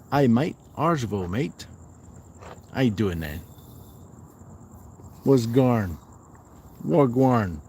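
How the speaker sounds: playful hint of an Australian accent. Reading out an Aussie viewer's greeting, mock Australian accent.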